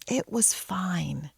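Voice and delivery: slow whispered repeat; soft whisper. Shown as a demonstration. Telling viewers it was fine, slow relieved whisper. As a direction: breathe it out as relief settles in.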